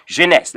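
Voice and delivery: jeunesse said "zheh-NESS"; French pronunciation. Shown as a demonstration. Teacher models a Bible book for beginners, jeunesse in French "zheh-NESS". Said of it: "Of course, in French".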